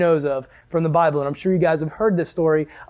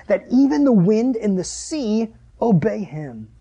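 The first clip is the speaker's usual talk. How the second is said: measured, deliberate reading aloud; emphatic, stretched-out Bible reading; scripture reading. Acted. Reads Bible passage aloud to group.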